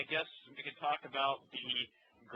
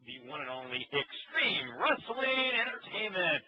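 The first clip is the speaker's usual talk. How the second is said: announcer voice; 5 semitones higher, slower than usual. Acted. Announcing the promotion name.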